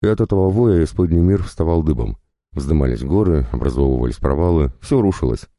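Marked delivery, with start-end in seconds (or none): none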